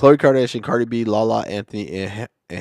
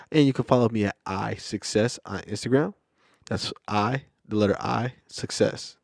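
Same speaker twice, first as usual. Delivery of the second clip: smooth airline pilot announcement; 2 semitones lower, 5 dB quieter than usual. Acted. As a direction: talk like a captain on the intercom. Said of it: "did you like my pilot's voice".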